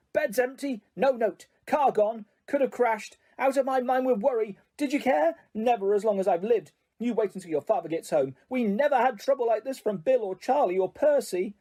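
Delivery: high, rising furious tirade; mother tearing into her sons; scolding mother. Acted. Mother scolding her sons for flying the car, high and furious.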